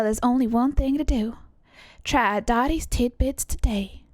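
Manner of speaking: put-on Southern-accented ad read; selling tidbits with measured, deliberate pauses. Pitching a remedy to listeners, ad read. Reads an ad in character.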